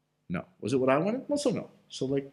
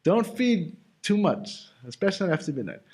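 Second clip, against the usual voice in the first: joking warning; 3 semitones higher than usual. Pretend. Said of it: "I'm just kidding".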